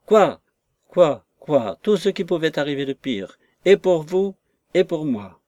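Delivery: loud, falling echoed "quoi"; exasperated outburst. Acted. Distraught maid answering the frantic lover, exasperated. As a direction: throw the question back in mild indignation.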